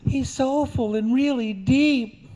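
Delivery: high, dreamy, lovestruck voice; swooning cowgirl. Acted. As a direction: swoon over him in a high voice. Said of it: "stares into his eyes and says".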